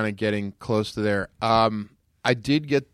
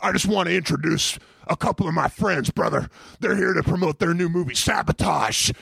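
Hulk Hogan; 4 semitones higher than usual. Retold or imitated. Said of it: "I can hear him out there, and he's like".

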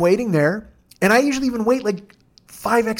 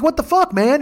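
much higher, indignant cry; shocked and offended; outraged yelp; 9 semitones higher than usual. Pretend. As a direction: pretend victim, shrill outrage. Bitten swimmer outraged.

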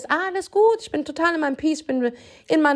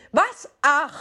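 indignant what; 2 semitones higher than usual. Retold or imitated. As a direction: sound outraged at his sigh. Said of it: "Ich so".

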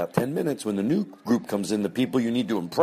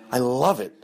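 shower the guest with praise, much higher and louder; gushing fake compliments; 5 semitones higher, 4 dB louder than usual. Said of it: "you go".

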